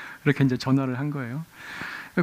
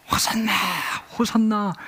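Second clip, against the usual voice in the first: crowd shouting hosanna; 6 semitones higher than usual. Retold or imitated. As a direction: call out like a cheering festival crowd. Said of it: "크게 소리 지르는 그 소리".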